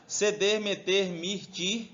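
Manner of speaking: slow recitation, each ending set apart; measured beats with lifted endings; memorization list. Shown as a demonstration. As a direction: recite it like a mnemonic to drill in. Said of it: "Grava assim, ó".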